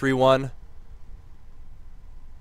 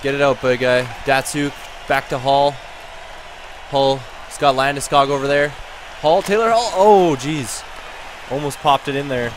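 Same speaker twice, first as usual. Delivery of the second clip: lively hockey commentary, calling each pass; live play-by-play. Pretend. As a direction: call the final seconds as they unfold. Live play-by-play of final seconds.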